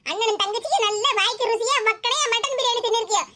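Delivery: mother's indignant reproach; aggrieved, nagging complaint; angry scolding. Acted. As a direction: scold with mild anger. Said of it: "கோவப்படாதம்மா".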